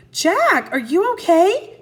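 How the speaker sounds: put-on a girl calling out in worry. A narrator's reading. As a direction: call down to her brother. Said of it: "Annie called".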